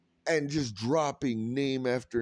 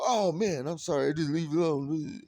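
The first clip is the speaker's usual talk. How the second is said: higher, sheepish mock apology; raised-pitch mock apology of a crackhead; apologetic backing off; 4 semitones higher than usual. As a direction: back down fast and meek. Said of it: "They go".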